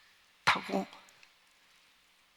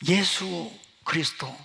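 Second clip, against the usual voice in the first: bold proclamation; 3 semitones higher than usual. Retold or imitated. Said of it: "다 선포하고".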